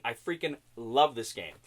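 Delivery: low, mock-earnest admission; confessed love. Reviewer reveals what his angry buddy really meant, confessed love. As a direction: drop the pitch and voice a buddy's true affection. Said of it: "what he was really saying".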